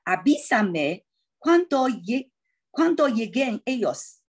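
Avísame cuando lleguen ellos read out slowly, word by word; slow model reading. Shown as a demonstration. Teacher reads slowly for the class to follow. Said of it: "跟着我一起念一下".

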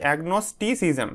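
"agnosticism" slowly, agnos-ti-cism, each part distinct; broken into syllables. Shown as a demonstration. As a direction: sound out "agnosticism" part by part for learners. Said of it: "সিলেবেলে ভাগ করে নেবে এটাকে". ("agnosticism" ধীরে, ভাগ করে উচ্চারণ)

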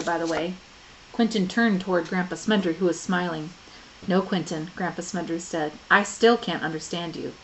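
reading a novel aloud to the class; story narration. A narrator's reading. Teacher reading the chapter to students, narrating. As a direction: tell the story steadily, lightly voicing the characters.

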